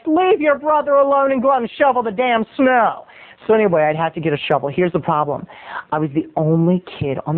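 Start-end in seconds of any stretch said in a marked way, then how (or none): 0.1-3.0 put-on higher-pitched parent telling off a kid; scolding parents. Parents sending son out to shovel, scolding. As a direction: order the kid out, fed up. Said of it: "And they'd be like".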